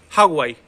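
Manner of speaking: हागुआई as "haa-gwaa-ee"; H first, then GU in हागुआई. Shown as a demonstration. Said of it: "वह का sound तो ले नहीं रहा".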